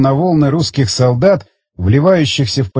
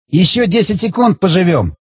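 laughing hysterically; 4 semitones higher than usual. A narrator's reading. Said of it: "Ещё сильнее расхохотался он".

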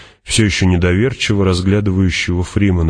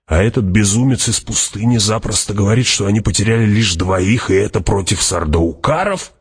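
raised pitch, rising to an astonished question; incredulous; 4 semitones higher than usual. Acted. Hawat marvels at the desert madman, incredulous. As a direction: build to a disbelieving high question.

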